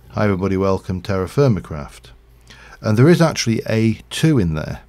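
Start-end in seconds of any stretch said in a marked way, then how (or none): 0.1-2.1 "welcome Terra Firmacraft" with the "to" swallowed; habitual intro. Shown as a demonstration. Streamer demonstrating the usual intro to viewers, "to" nearly vanished. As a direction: run "welcome" straight into "Terra", the "to" hidden. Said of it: "when I introduce Terra Firmacraft I do".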